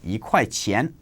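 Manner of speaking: yi in Yi ge ren rising, second tone. Shown as a demonstration. Teacher demonstrating to learners, yi rising. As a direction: lift yi upward in Yi ge ren. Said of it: "it changes to the second tone".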